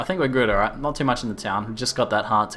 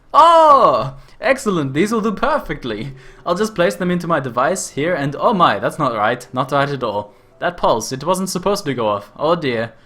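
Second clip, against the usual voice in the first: higher, excited Australian inventor; excited over-exaggerated Australian; 3 semitones higher, 4 dB louder than usual. Inventor thrilled by the crystals, in an Australian accent. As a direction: gush in a thick Australian accent. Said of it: "an over-exaggerated Australian ter-, stereotype voice".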